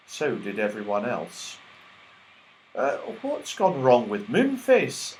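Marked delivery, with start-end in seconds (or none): 2.7-5.2 a touch of worry; gently worried; anxious. Acted. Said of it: "asked Silky anxiously".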